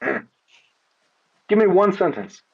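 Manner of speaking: slow and deliberate, in his supposed real voice. Shown as a demonstration. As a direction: drag out "Give me one sentence" slowly, as if dropping the act. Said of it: "In my real voice".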